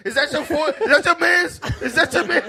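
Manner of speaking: high-pitched mock-crying question. Comic imitating someone who got beat up, mock crying. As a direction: imitate someone crying after a beating, half laughing. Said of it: "some people crying away".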